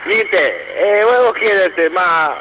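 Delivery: caller on a phone line; thin telephone sound; over the phone. Real, not acted. Caller phones into radio show.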